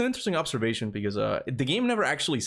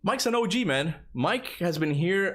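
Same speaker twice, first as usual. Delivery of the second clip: excited praise; 7 semitones higher than usual. Real, not acted. Praising a long-time viewer.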